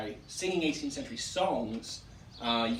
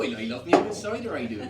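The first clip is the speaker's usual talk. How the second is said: rural West Country dialect; 8 dB louder, faster than usual. Shown as a demonstration. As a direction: belt it out in rustic West Country accent. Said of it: "there you go".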